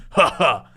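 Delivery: short, flat two-beat laugh; a dry "ha ha" with no joy; Dom's laugh. Retold or imitated. Host mimicking his friend's stingy laugh. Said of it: "that's how Dom laughs".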